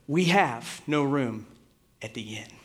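put-on measured reading of a child's one line; recited line. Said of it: "he said out loud".

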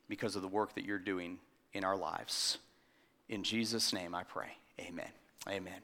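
low, soft, reverent praying voice; prayer. Real, not acted. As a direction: pray quietly to God, pausing between petitions. Leads congregation in prayer.

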